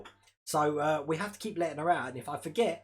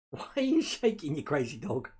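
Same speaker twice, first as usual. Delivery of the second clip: teasing dog talk; 3 semitones lower than usual. Real, not acted. Cooing at his shaking dog.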